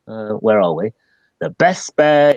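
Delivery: ordinary delivery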